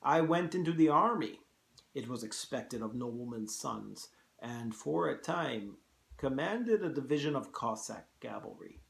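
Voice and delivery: put-on Russian-accented general recounting his career; reminiscing old soldier with a Russian accent; General Zaroff. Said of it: "hard to do a Russian accent".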